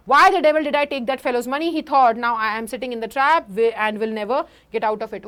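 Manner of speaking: slow, careful read-aloud of the text; slow story reading. Acted. Teacher reading the English text to class, slow and careful. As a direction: read each word out slowly for students.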